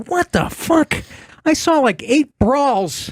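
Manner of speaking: high-pitched mock disbelief; incredulous quoted outburst; astonished retelling. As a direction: pitch it way up, imitating someone appalled. Retelling Tell's astonished reaction.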